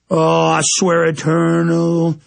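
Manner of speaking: fiery oath swelling into a full shout; building defiant oath. Real, not acted. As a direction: swear it like a vow to God, climbing to a roar. Swearing a defiant oath over music.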